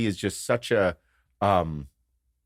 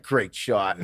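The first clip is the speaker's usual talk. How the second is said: toned-down parroting of praise; child echoing. Retold or imitated. Child repeats the players' praise, imitated echo. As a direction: repeat it back at an everyday pitch. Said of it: "He's just repeating".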